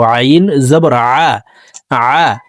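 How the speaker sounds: আ drawn from the throat; slow guttural আ; throat ain. Shown as a demonstration. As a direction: ain vowel sound. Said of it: "আইন হরফকে হলকের মধ্যখান থেকে উচ্চারণ করব".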